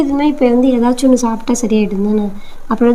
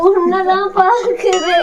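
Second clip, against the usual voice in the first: slow, higher, laughing through fear; nervous laugh; 4 semitones higher, much slower than usual. Real, not acted. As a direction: giggle while still spooked. Scared, half laughing at cat. (பயத்தோடு சிரிப்பு)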